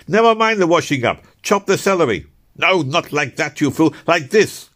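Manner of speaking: shrill, loud, scolding cook; nagging French cook. A narrator's reading. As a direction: bark orders like a frantic cook. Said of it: "A ceaseless, nagging chorus of orders streamed from her".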